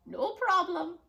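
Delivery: witch voice. Acted. Witch answers again.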